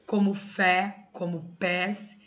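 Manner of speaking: slow, careful já and mas; slow example words. Shown as a demonstration. Teacher reading stressed monosyllables to the class, slowly. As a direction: lay out each example slowly. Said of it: "terminados em E e es".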